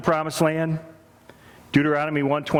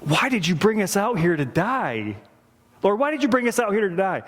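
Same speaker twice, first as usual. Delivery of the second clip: complaining whine; 5 semitones higher than usual. Retold or imitated. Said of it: "they're complaining and saying".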